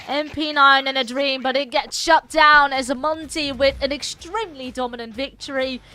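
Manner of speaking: energetic, punchy round-closing call; live play-by-play. Real, not acted. Esports caster calling the final round for viewers, excited play-by-play. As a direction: build excitement toward the winning moment.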